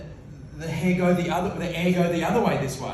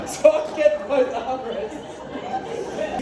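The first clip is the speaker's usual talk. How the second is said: smug reply; 7 semitones higher, much slower than usual. Retold or imitated. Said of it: "And I go".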